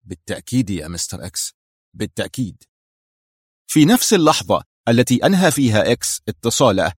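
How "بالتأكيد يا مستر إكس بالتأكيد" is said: lower, softer, submissive murmur; muttering. A narrator's reading. Kruger yielding to Mister X, muttering. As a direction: mumble assent, cowed. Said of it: "وهو يغمغم".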